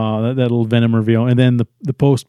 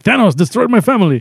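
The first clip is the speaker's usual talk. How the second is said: mock dramatic lament; 9 semitones higher than usual. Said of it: "He's like / Like some Mexican dude".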